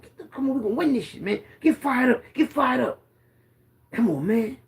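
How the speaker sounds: rally the huddle, keep pushing; hyping up the team. Retold or imitated.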